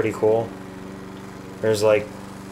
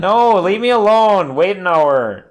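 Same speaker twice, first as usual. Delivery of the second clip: high, loud pleading; hammed-up wail to be left in peace; mock protest; 6 semitones higher, 5 dB louder, slower than usual. Gamer fending off a Windows update, mock protest.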